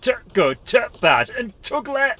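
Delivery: slow, loud, hammed-up Yorkshire; exaggerated Yorkshire accent, drawn out. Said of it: "make that as a Yorkshire".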